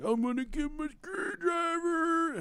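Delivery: high, slow, teasing shout; teasing wife voice. Retold or imitated. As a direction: tease him like a playful wife. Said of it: "She's like".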